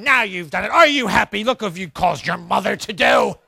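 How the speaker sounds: mock screaming parent. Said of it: "You start screaming".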